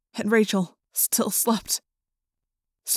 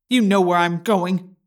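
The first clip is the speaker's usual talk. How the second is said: snapped; 3 dB louder, slower than usual. A narrator's reading. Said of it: "the Yeerk snapped".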